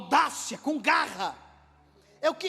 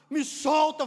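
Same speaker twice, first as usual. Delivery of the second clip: higher, louder order to let go; shouted demand; 4 semitones higher, 5 dB louder, slower than usual. Acted. God wrestling Jacob, shouted demand. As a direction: cry out mid-struggle. Struggle acted out at full voice.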